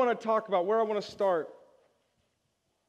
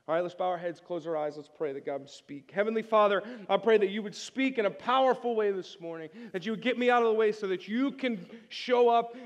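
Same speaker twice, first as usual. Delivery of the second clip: prayer; 2 semitones lower than usual. Acted. Leads a prayer.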